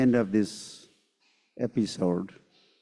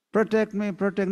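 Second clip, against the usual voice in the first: pleading Durvasa; 10 semitones higher, faster than usual. Acted. Durvasa begging gods for protection.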